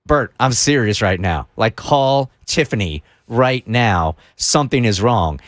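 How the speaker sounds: low, deliberate retold warning; grave warning. Program director urging Bert to get help, grave and deliberate.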